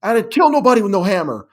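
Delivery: high, loud blurted denial; yelled outburst. Retold or imitated. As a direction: yell it out, losing control. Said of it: "unprompted just yells out".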